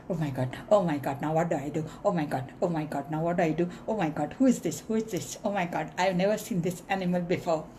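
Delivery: fast, frantic squeak of a cornered mouse; panicked mouse. Acted. Terrified mouse caught face to face with a lion, babbling fast. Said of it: "the mouse starts".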